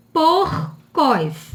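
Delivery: PORCOS split slowly, R held before the C; sounded R. Shown as a demonstration. Teacher giving an example word, syllable-final R made clear. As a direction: say "Porcos" as "POR-cos". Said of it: "é porcos".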